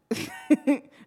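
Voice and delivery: high, loud squeak of a held-in sob; imitated stifled cry. Woman pulled over trying to hide crying, mock stifled sob. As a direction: act out a cry escaping. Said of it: "you try to hide a cry".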